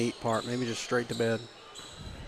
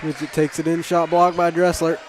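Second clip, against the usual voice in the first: words stretched by a yawn; 3 semitones higher, 4 dB louder than usual. Real, not acted. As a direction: call it mid-yawn. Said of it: "Sorry, I had to yawn".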